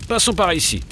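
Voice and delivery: high, pleading protest; dismayed protest. A narrator's reading. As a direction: beg to go another way. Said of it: "crie Henri".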